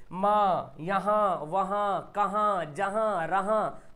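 माँ, यहाँ, वहाँ each ending on a nasal vowel; nasal noon ghunna. Shown as a demonstration. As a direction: recite माँ, यहाँ, कहाँ with endings through the nose. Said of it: "जिसकी आवाज़ नाक से निकले". (माँ, यहाँ, वहाँ का अंत नाक से)

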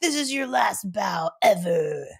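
slow, loud, high and tearful, voice breaking; tearful announcement. Retold or imitated. Mother retelling the last-bow announcement, crying. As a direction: choke out each word as if crying. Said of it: "And then they're like".

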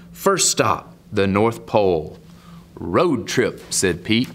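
lilting picture-book read, rising and falling; story narration. Acted. Man reads Pete the Cat to young viewers, storytelling lilt. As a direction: read the rhyme out with a swing.

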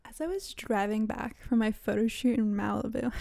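lightly affected humblebrag; a hint of showy name-dropping; mock bougie. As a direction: repeat it with a touch of mock self-importance. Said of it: "wow, that sounded so fucking bougie".

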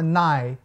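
"nai" with silent K, rhyming with eye; long I. Shown as a demonstration. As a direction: sound out "nai" with a falling glide. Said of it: "tem o som de I". ("nai" com som de "ai")

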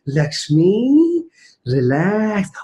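drawn-out, soothing name, then relax; calming self-talk. Retold or imitated. Mother telling herself to stay calm, soothing. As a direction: stretch it out to calm yourself. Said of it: "be calm and relaxed".

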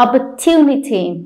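"Opportunity" stressed on the TU syllable. Shown as a demonstration. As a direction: hit the third syllable of "Opportunity". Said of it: "vào âm tiết to".

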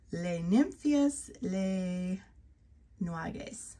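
Les Nymphias stretched out slowly; French name retry. Real, not acted. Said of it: "I tried".

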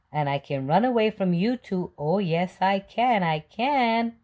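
high, loud singsong taunt; taunting yell. Acted. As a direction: tease the chasers with a chant. Cookie taunting policeman.

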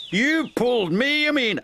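high, indignant contradiction; arguing back. A narrator's reading. Douglas throws the blame back at his twin, arguing. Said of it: "argued Douglas".

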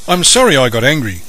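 apology. Acted. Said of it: "said Nathan".

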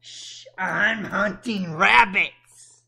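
slow whispery hunter voice; lightly voiced cartoon hunter, very slow; Elmer Fudd. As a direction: creep along like Elmer Fudd. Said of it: "sounded like Elmer Fudd".

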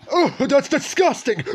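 slow disgusted cry into a laugh; grossed out, then laughing. Real, not acted. Reacting to gross food in game.

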